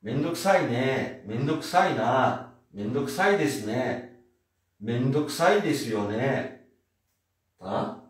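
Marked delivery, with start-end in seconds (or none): 0.0-6.6 slow "Mendokuse ne", endings stretched; walk through each ending slowly; sentence endings demo. Shown as a demonstration. Teacher slowly drills Japanese sentence endings for the class. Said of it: "posso pôr o na em tudo".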